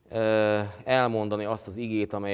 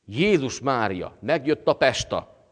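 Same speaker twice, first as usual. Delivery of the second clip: slow, raised exclamation, louder and higher; retold cry out; 4 semitones higher, 5 dB louder, slower than usual. Grandmother announcing the soldier's homecoming, in a retold cry out. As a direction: imitate a grandmother calling out in astonishment. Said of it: "kiáltotta a nagyanyám".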